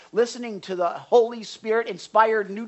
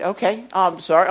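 put-on offhand, louder kid's sorry; insincere apology; 7 dB louder than usual. Kid apologizing to a parent, insincere. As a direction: toss off a sorry you don't mean. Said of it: "doesn't seem like you're sorry".

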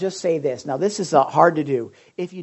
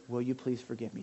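sincere request; 4 semitones lower, 8 dB quieter than usual. Shown as a demonstration. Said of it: "I want you to say".

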